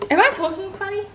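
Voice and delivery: talking with a numb face; numb mouth. Real, not acted. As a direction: speak through dental numbness. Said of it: "I can't feel the whole side of my face".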